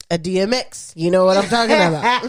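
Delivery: a rapper's voice. Shown as a demonstration. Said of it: "I'm trying to do more of a".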